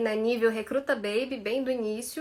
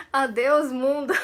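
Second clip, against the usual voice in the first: mock farewell; 5 dB louder than usual. Joking after hard twister.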